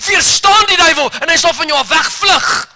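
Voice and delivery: quoted word of the Lord, shouted with authority; commanding scripture. Acted. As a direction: declare it like a battle cry. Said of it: "Sê".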